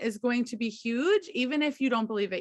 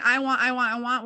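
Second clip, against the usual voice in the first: wanting tone; 4 dB louder than usual. Shown as a demonstration. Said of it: "Instead of saying".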